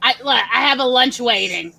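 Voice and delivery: a hint of an impatient older woman; lightly voiced, hurrying someone to start; Roz voice. Impatient Roz voice urging the recording to start. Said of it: "all they hear is".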